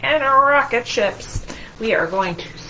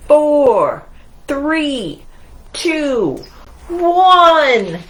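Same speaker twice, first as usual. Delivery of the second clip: counting down, growing louder and higher; building countdown; 4 semitones higher, 6 dB louder, much slower than usual. Acted. Narrator counting down the shuttle launch, building loudly.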